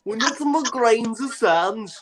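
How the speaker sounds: high, slow, wailing Beatle; mocking Beatle parody. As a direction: draw it out as a spoof mystical Beatle. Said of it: "rip the piss out of them".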